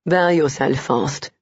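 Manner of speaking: low male voice. A narrator's reading. Hero urges, slow.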